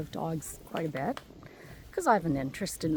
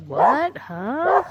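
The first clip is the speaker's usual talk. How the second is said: hounds' voice; 6 semitones higher, 8 dB louder than usual. Retold or imitated. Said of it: "they are all like".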